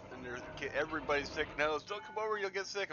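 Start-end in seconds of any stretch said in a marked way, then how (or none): 1.8-2.9 whiny ex impression. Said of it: "help my ex out".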